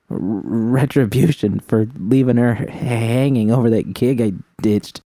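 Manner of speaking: rattled and hurting, pushing through; shaken young woman. Acted. V voice again.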